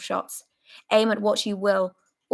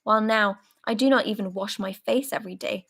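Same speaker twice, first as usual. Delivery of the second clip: hoarse, emotional rant. Acted. Soldier raging at comrades who talk of home, hoarse fury. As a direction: spit out the anger and fear. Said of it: "hoarse and quivering with emotion".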